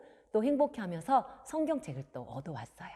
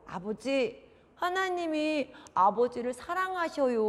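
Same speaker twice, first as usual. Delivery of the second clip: slow, sincere persuasion; earnest pleading child; 3 semitones higher than usual. Acted. Son telling father that God loves him, pleading. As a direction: gently plead with a parent, drawing out endings.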